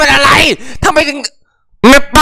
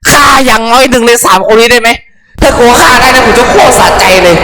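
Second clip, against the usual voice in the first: loud venting; 5 dB louder than usual. Real, not acted. Angry venting at anime.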